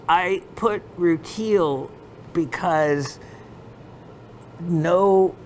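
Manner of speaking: dealer's explanation in a lightly mimicked Pakistani accent; hint of a Pakistani accent, halting between phrases; imitated Pakistani accent. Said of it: "he just said it like this".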